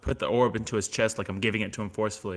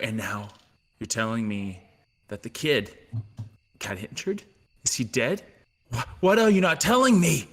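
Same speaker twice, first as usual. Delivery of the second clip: angry confrontation; 3 semitones higher, 4 dB louder than usual. Acted. Axe confronts the group about the injured kid, angry and rising. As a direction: accuse them all, building to a cry.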